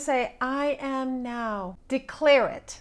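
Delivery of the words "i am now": meek, timid, hesitant, hushed half-whisper. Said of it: "You're not gonna whisper it".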